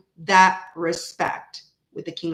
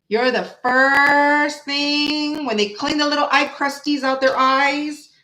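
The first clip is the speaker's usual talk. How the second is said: slow, higher, dreamy parody of the love line; mock romantic; 5 semitones higher than usual. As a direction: ham up the sappy line slowly. Mocking the card's romantic line.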